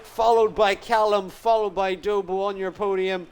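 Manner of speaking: excited finish call. Real, not acted. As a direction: announce the winner with lift. Calling the race win.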